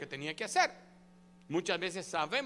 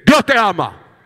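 shouting; 23 dB louder than usual. Shown as a demonstration. Pastor jokes about yelling into a neighbour's ear, a huge shout. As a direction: yell "Dios te ama" at full blast into the ear. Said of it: "va al oído de su vecino y dice".

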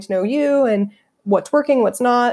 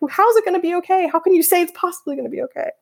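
much higher, whiny half-laughing wail; mock teen wail; 10 semitones higher, faster than usual. Imitating a hormonal teenager told it's okay, mock wailing. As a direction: play a hormonal teen crying. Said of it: "like, hormonal teenagers".

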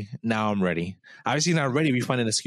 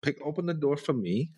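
mock demanding girlfriend; 9 semitones higher than usual. Mimicking women's demands.

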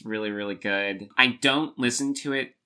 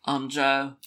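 high hammed-up British charmer, louder on the question; mock Joe voice; 6 semitones higher, 7 dB louder than usual. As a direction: play the smitten Londoner, overdone. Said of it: "He's like".

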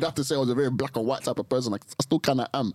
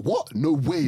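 lightly imitated shocked reaction; mock shock; 3 semitones higher, slower than usual. Co-host showing how people react to betrayal, mildly shocked. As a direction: act out mild disbelief. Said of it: "you can be shocked".

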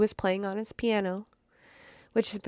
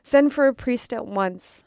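fierce cry; 3 semitones higher, 6 dB louder than usual. Acted. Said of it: "cried suddenly, almost fiercely".

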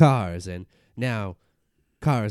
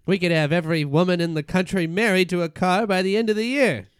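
excited; 5 semitones higher, 3 dB louder than usual. Acted. Ford gets carried away with his idea.

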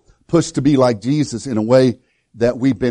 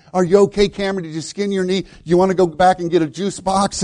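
coddling coach; 3 semitones higher than usual. Retold or imitated. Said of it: "He could have done it passively".

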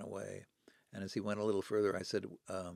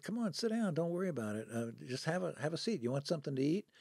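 higher-pitched, coaxing welcome; friendly invitation; 7 semitones higher, 3 dB louder than usual. Retold or imitated. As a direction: coax them to come and sit. Inviting strangers to sit and eat.

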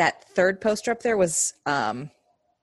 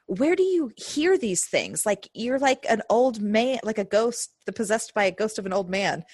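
imitating Brock; 5 semitones higher than usual. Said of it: "Brock was like".

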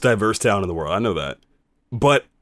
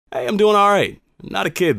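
higher-pitched, casual reply; breezy, raised-pitch comeback; light retort; 9 semitones higher than usual. Retold or imitated. First breezy reply to stranger.

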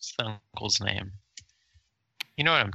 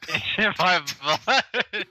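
mocking laugh; 10 semitones higher, slower than usual.

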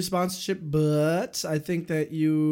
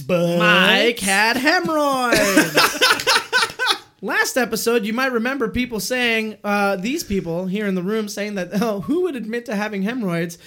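higher, louder through laughter; laughing while talking; 5 semitones higher, 5 dB louder than usual. Real, not acted. Host tells the hemorrhoid story while laughing. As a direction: talk through the giggles.

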